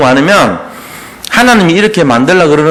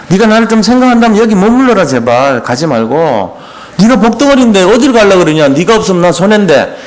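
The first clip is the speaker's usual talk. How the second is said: pleading uncle; 4 semitones higher than usual. Retold or imitated. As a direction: beg him to stay, a touch hammed-up. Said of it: "막 이렇게 애걸복걸 하잖아요". (조금 과장된 애걸복걸)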